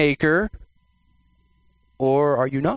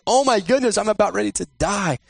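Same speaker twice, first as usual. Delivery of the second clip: high-pitched acted panic; mock freaking out; 5 semitones higher than usual. Preacher paraphrases Gideon seeing an angel, mock panic. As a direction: play at being terrified, pitched up. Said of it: "he's freaking out".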